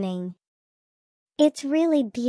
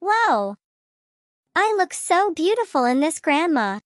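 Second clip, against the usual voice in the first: bright, lifted delight at the dress; delighted gasp; 2 semitones higher than usual. Acted. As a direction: gasp and gush over your reflection. Child delighted trying dress.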